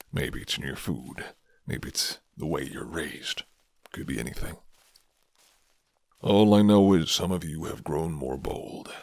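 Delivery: a hint of a guarded werewolf offering shelter; gruff werewolf man. Werewolf tells how curse changed.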